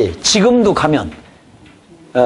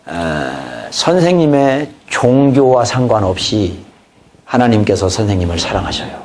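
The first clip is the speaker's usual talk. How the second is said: gentle witnessing; 7 semitones lower than usual. Shown as a demonstration. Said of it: "이 말이 굉장히 효과적이라는 걸".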